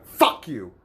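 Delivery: retold curse. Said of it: "I actually said".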